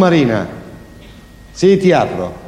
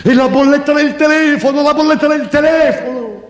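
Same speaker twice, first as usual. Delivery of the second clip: high, thin voice, ranting about the bill; thin high rant about the phone bill; Marina's thin voice; 6 semitones higher than usual. Acted. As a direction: whine it out in a voice too small for her. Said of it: "Una voce che non ci sta mica con quel corpo".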